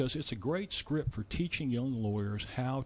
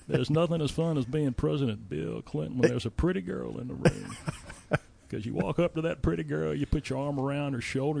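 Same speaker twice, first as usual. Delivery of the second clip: Bill Clinton impression; 4 semitones higher than usual. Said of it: "when you're doing Bill Clinton".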